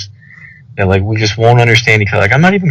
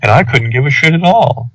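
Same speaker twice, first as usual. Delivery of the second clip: higher-pitched mocking imitation; teasing, raised-pitch mock disinterest; joking imitation; 5 semitones higher than usual. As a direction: mimic someone's indifference as a joke. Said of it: "a joking voice".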